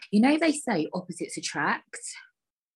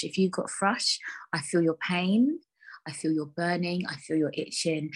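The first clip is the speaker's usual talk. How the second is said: hushed sympathy. Real, not acted. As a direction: comfort fellow sufferers gently. Sympathy to listeners.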